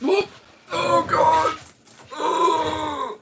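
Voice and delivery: disgusted squeal. Real, not acted. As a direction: recoil with a high, soft "ugh". Just puked in mouth.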